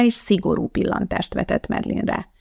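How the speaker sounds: usual speaking voice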